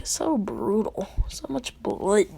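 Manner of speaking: slow, drawn-out mock dismay; appalled reaction. Onlookers after he cuts them all up, slow mock dismay. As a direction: draw out each phrase, lightly aghast.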